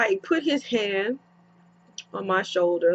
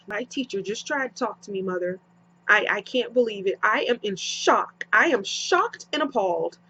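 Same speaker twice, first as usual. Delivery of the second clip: hammed-up, hushed fake outrage, quicker; mock shocked. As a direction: play the scandalised daughter, teasing. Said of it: "I play with my mom like that".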